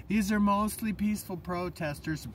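lightly voiced TV reporter reassurance; hint of a newsreader voice; mock news reporter. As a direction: parody a calm on-air correspondent. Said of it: "sitting on the mic going".

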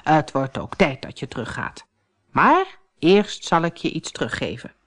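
put-on calm the frightened girl; old woman reassuring. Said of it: "zei vrouw Holle".

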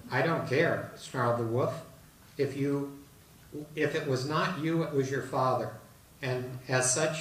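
put-on storyteller reading a children's fable; reading a fable aloud. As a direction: tell the old fable to the audience, gently paced. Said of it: "I'll read it for you tonight".

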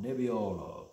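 lightly Italian Nebbiolo, neb-ee-OH-lo; Italian-style Nebbiolo with a long falling OH; Italian accent. Shown as a demonstration. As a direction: put a touch of Italian on Nebbiolo. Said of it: "put your Italian accent on".

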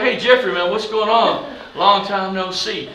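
put-on loud, high, drawn-out hello to an old pal; hearty greeting. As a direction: call out a big slow greeting. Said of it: "I'd be like".

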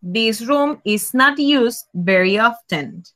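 spaced out and clear; teacher repeating the right answer slowly; slow model answer. Shown as a demonstration. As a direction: say it slowly for the class. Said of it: "Very good".

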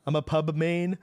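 a hammed-up fake British accent; mock British accent. Streamer mocking British people, hammy British accent. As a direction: lay on a cheesy British twang. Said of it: "that's not an accent".

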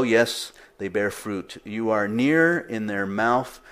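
slow, earnest reading of a prayer; measured Bible reading; scripture reading. Acted. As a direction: read the plea deliberately. Reads scripture passage aloud.

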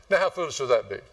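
ordinary talk

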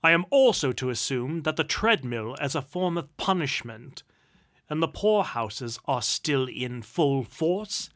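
loud, contemptuous tirade; harsh, imperious nobleman building in force; callous duke. A narrator's reading. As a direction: rant with lordly scorn, hammering the words. Duke's tirade against the poor.

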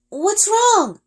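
high, loud question over the wind; calling out. A narrator's reading. Girl calling back to Ari mid-flight, loud. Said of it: "He cups his hands around his mouth".

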